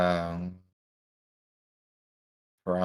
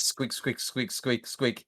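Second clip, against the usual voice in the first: squeaky bat; 4 semitones higher, 4 dB quieter, slower than usual. Acted. Casey the bat nagging.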